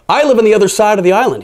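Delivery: high, fast scolding toad; big toad. A narrator's reading. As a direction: rattle off the complaint. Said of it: "he said".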